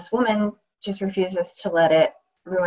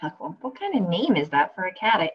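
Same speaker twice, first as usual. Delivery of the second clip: wry, lively first-person performance, full of asides; radio play monologue. Acted. Actress reading a radio play aloud, wry and lively. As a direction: play the injured woman talking straight to the audience.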